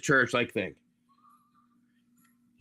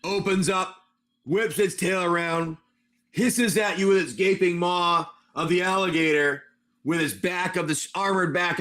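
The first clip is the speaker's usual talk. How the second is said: slightly raised, measured monster narration; dramatic scene setting; 3 semitones higher than usual. A narrator's reading. Game master presents the attacking monster to players, dramatic narration. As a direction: draw out the menace as the creature arrives.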